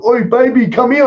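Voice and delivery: loud, high-pitched imitation of a catcaller; mock catcall. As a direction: yell it across the road like a lout. Imitating men catcalling across the road.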